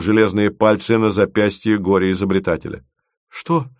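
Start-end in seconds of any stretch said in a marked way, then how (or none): 3.3-3.7 small, high, pitiful question. A narrator's reading. Dragged inventor questions his captor, pitifully. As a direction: ask it softly, pleading a little. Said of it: "жалко спрашивал влекомый".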